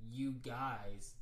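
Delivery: careful, separated "You guys" in place of y'all; corrected speech. Retold or imitated. Correcting himself to her friends, "You guys" said with deliberate care. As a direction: say "You guys" deliberately, each word distinct. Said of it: "I corrected myself".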